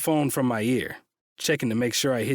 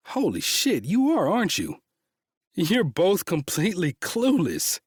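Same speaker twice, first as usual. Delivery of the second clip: laughing disbelief; 6 semitones higher than usual. Acted. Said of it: "He's laughing now".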